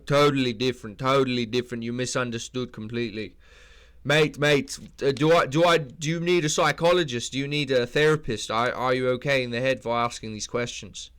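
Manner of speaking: put-on indignant, as Drickus with a South African accent; mock indignant Drickus. Drickus scolding a reporter, indignant South African accent.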